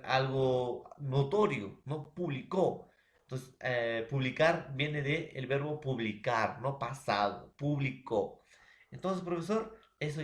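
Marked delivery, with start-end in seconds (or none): 2.1-2.9 "Publicó" stressed on final CÓ; stress on last syllable. Shown as a demonstration. Teacher repeating the verb for students, "Publicó" stressed on final CÓ. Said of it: "Este puede ser el acento". 7.6-8.4 "publicó" with the accent on final CÓ; stress on last syllable. Shown as a demonstration. Teacher giving students the past tense, "publicó" stressed on final CÓ. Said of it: "Este puede ser el acento".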